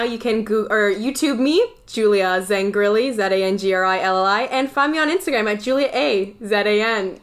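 newsy reporter delivery. Acted. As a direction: plug it like a TV reporter. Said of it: "a great reporter voice right there".

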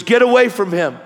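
retold angry order, high and loud; freaking-out cop. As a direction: imitate a cop ordering someone back. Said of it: "he's cussing me out again, freaking out".

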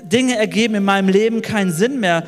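rising, pleading preacher's cry; impassioned sermon lament. Acted. Preacher voicing a mourner's lament over the empty grave, impassioned. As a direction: pour out the grief of the lost follower.

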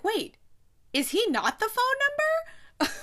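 high, slow squeal of disbelief; shocked realization. Retold or imitated. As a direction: gasp it out as the twist lands. Realizing plot twist with mom.

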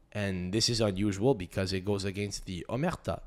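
a hint of a deadpan Montreal police chief. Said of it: "They'll go".

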